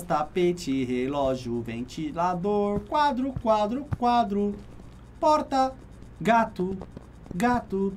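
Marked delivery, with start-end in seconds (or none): none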